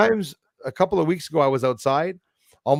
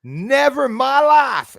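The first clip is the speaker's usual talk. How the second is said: put-on Southern accent; 10 semitones higher, 7 dB louder, slower than usual. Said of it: "with the Southern accent from the ranch".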